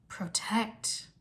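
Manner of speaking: whispered, puzzled question; to himself. A narrator's reading. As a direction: whisper it as if to yourself. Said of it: "Zane said to himself".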